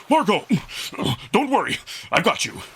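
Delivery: steady her while grabbing her; urgent reassurance. Acted. Amicus rescues Margot in the lake, urgent reassurance.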